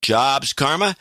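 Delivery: bright announcer reading out the prize; game show host. Shown as a demonstration. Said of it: "You said that like a game show host".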